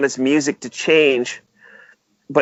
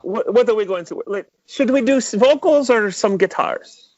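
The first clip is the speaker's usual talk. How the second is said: lightly voiced Ivan, pitched higher; a light, higher-pitched take on an eager studio friend; imitating Ivan; 6 semitones higher than usual. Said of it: "he would just be like".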